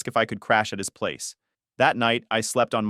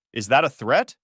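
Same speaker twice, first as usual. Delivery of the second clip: snapped; 5 dB louder than usual. Acted. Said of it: "she snapped".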